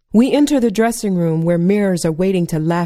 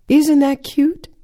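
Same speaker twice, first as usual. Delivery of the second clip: gushing mother; 8 semitones higher, 4 dB louder, slower than usual. Retold or imitated. Mama gushing over bra bows.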